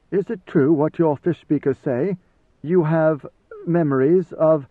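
lightly voiced soldier, tentative question; hesitant Idaho. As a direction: ask haltingly, breaking off unfinished.

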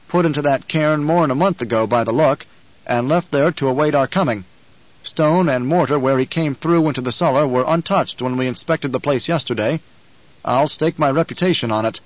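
lightly voiced guardsman, firm report; guard's earnest report. Guard reports the cellar find to his lady, earnest. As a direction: report firmly to your superiors.

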